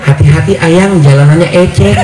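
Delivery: cutesy pampered voice; baby talk. Retold or imitated. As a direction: coo it like a spoiled bride. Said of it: "ngomongnya kolokan".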